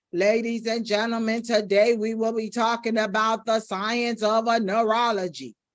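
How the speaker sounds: flat, one-note monotone lecturer drone. Speaking tip, mimicking a doctor's lecture opening in a flat monotone. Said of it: "a person that's sounding monotone is almost like a doctor".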